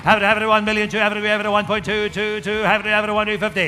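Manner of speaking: auctioneer. Acted. Auction bid calling chant.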